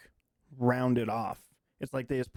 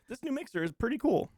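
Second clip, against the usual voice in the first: high-pitched, more clearly spaced words; slower repeat; 9 semitones higher than usual. Real, not acted. Co-host repeating the mixer line for a listener, slower. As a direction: repeat it less hurriedly, each word distinct. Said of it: "One more time, you said that super fast".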